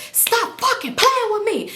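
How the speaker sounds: high, slow, hammed-up tearful yell; mock crying-yell, words drawn out; crying-yelling, retold. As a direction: act out an exasperated high-pitched cry. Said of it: "I'm crying but yelling".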